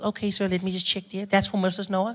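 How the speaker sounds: polite shop-counter voice; a hint of a cheerful pharmacist.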